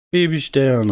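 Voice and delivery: hoher Ruf mit fallendem Ende; Mama Sonne ruft. A narrator's reading. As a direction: ruf dein Kind beim Wiedersehen. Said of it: "rief Mama Sonne". (mütterlich rufend)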